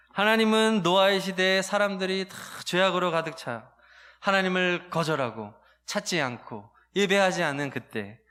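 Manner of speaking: usual speaking voice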